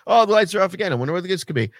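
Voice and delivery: overplayed bored sarcasm; sarcastic mock, bigger. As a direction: ham up the fake shock. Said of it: "And I'm like".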